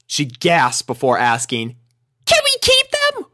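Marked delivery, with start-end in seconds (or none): 2.3-3.3 put-on much higher, childlike; an eager little girl; little filly voice. A narrator's reading. Sweetie Belle pitching her idea to Rarity, childlike.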